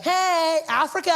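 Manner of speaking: put-on high, loud surfer-girl holler; California babe. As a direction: call out like an overexcited beach girl. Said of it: "California babe".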